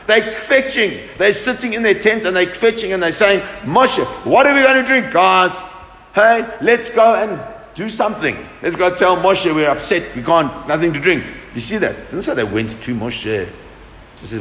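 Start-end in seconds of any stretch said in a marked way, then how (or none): 3.6-11.2 grumbling crowd. Retold or imitated. Voicing the grumbling Israelites.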